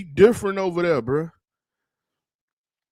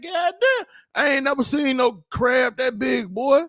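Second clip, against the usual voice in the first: amazed shout; 5 semitones higher than usual. Retold or imitated. Streamer retelling a giant TikTok crab, amazed shout. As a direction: shout it like a crab that huge stuns you. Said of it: "I said".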